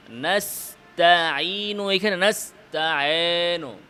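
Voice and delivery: নাস্তাঈনু with the ঈ sliding toward aa; ya drifting to alif. Shown as a demonstration. Teacher showing the wrong ya sound. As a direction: demonstrate the mistake in নাস্তাঈনু. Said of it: "কিছুটা আলিফের দিকে চলে যাওয়া".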